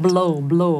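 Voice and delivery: "Blow blow" with L, as the student said it; wrong blow. Shown as a demonstration. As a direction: imitate the student's "blow" for blue. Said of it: "ไม่ใช่ brew". (เลียนเสียงผิด "blow")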